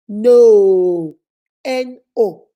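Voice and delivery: a loud, flat-out No; firm loud refusal in practice. Shown as a demonstration. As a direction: shut the request down. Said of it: "practice it with me".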